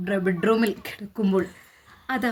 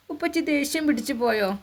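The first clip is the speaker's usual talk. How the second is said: put-on higher pleading child voice; a little boy begging to know; small son's voice; 5 semitones higher, 5 dB quieter than usual. Small son presses his mother in bed, high child voice. Child asks about angry father.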